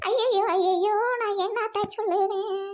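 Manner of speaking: put-on wail, slowing at the end; fake crying lament. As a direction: wail as if disaster has struck. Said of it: "கேட்டா சொல்லாம நீ பாட்டுக்கு அழுதுகிட்டு இருக்கியே".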